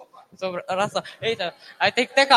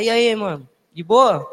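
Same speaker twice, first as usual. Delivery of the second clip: slangy street greeting; 4 dB louder, slower than usual. Shown as a demonstration. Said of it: "Aí você tem que falar".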